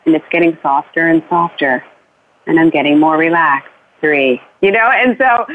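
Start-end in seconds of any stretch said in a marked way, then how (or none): 0.0-4.4 guided bedtime journey. Shown as a demonstration. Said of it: "you say".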